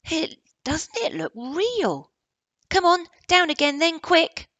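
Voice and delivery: high and loud, slowing then urgent; excited boy. Acted. Indian boy urges Barney back downstairs, high and loud. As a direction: voice the Indian boy eager to hurry.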